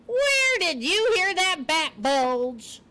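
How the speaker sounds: high, slow, incredulous demand; scornful porcupine. A narrator's reading. Porcupine scoffing at what Poppy heard, scornful. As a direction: drag out the question in disbelief.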